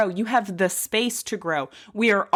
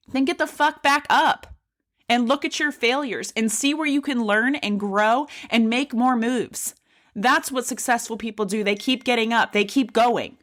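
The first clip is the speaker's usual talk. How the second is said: passionate yelling; 2 semitones higher than usual. Real, not acted. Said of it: "Sorry if I'm yelling into the mic".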